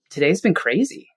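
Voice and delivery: mirror the words back gently and let them hang; calm mirroring. Shown as a demonstration. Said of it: "And then wait five seconds".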